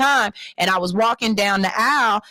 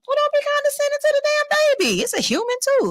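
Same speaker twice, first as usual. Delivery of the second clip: exasperated rant; faster than usual. Real, not acted. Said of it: "rant at adults".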